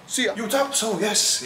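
excited greeting. Real, not acted. Upbeat vlog greeting on arrival.

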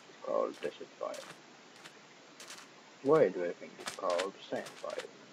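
low, quiet put-on voice; odd low voice. Real, not acted. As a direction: keep a strange low voice going. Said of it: "why the fuck am I talking with this voice".

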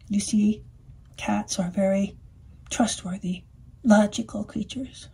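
hushed, secretive aside; confiding whisper. Acted. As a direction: lean in and whisper it. Cat confides about cats.

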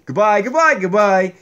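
low puppet voice. Acted. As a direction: answer goodbye in the low voice. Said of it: "really bad ventriloquist".

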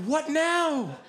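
high, incredulous questioning; squealed disbelief; bewildered reaction. Retold or imitated. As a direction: pile up questions in mock alarm. Bewildered teens reacting, retold.

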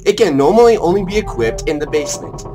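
deliberate, presentational game tutorial; play-by-play. Acted. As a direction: read the instructions out like a commentator. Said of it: "You sound like a play-by-play".

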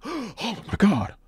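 imitating shock. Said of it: "she was shocked".

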